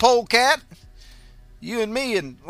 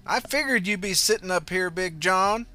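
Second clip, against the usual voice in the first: higher, louder call to Big John; female voice crying out; 8 semitones higher, 7 dB louder than usual. A narrator's reading. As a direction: call out as old Angelique. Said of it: "cried a female voice".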